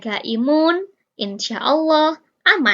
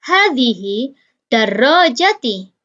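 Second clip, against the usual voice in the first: bacaan contoh pelan; 3 dB louder, slower than usual. Shown as a demonstration. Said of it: "Nomor tiga".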